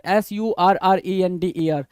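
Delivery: each letter clear for dictation; slow spelling. Shown as a demonstration. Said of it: "spells the word letter by letter". (धीरे-धीरे spelling बोलना)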